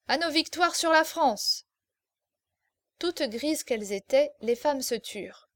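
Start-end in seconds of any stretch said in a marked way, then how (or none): 0.1-1.6 put-on higher, louder drunken war toast; drunken shout. Drunk lieutenant toasting at the table, shouting. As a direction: bellow the toast, fired up by drink. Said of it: "il cria".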